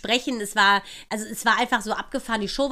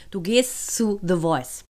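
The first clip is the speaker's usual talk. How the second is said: emphatic urging; 3 semitones lower, slower than usual. Retold or imitated. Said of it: "die anderen drei es zu leise gesagt haben".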